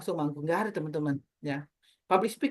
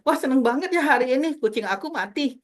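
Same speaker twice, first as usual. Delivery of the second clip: chirpy delivery of sad news; mismatched cheerful tone; 5 semitones higher than usual. Shown as a demonstration. Teacher showing a wrong cheerful tone for bad news. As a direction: cheer over something sad. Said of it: "jangan dibalik juga".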